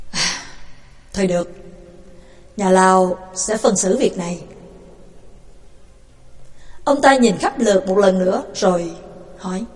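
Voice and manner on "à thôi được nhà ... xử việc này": gentle voice. Acted. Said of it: "dịu dàng nói".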